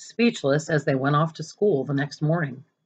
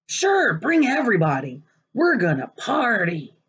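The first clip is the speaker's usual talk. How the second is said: higher eager party talk; excited kid; 6 semitones higher than usual. Acted. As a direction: cheer him on. Boys eagerly agreeing.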